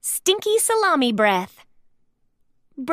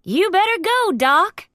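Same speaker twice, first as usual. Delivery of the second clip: urging; 7 semitones higher, 3 dB louder than usual. A narrator's reading. Hallie urges Doc off.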